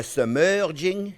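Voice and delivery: "submerging" said slowly and deliberately again; slowed term. Shown as a demonstration. Chef repeating the new term to viewers, slowly. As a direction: lean on "submerging" as the lesson word. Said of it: "That's a new culinary term we're learning today".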